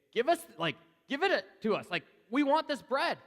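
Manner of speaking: high, loud, greedy pleading; clamor for the bread like a hungry crowd; eager begging crowd. Acted. Preacher voicing a crowd begging Jesus for bread, high and loud.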